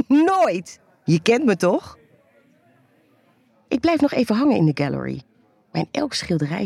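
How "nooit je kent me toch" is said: playful high laugh. Acted. Playful reply to tease.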